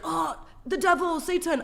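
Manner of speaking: high, slow, mock-dramatic "Oh, the devil"; mock fearful believer. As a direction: ham up a superstitious believer. Mocking old-time religious people.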